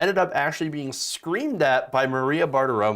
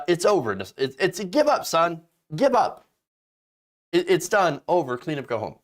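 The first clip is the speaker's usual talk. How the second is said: imitating Barr, rising to a shout; 2 semitones higher than usual. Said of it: "William Barr is like".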